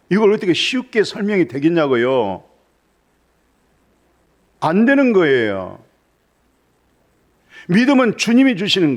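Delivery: high, loud fervent preaching; full-throated sermon climax; preaching at full force. Acted. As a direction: proclaim it to the whole hall.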